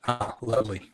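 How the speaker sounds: glitchy robotic call audio; robot voice from a bad connection. Real, not acted. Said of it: "You do sound like a robot".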